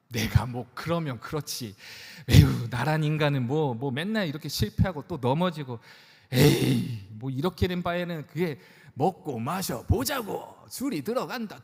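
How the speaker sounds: sighing, defeated grumble that turns to a shrug; sulky self-pity. Retold or imitated. Preacher mimics a sinner giving up and drinking, sighing and sulky. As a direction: give up on yourself and reach for the drink. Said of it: "쭉쭉쭉 하면서 이렇게 하십니까?".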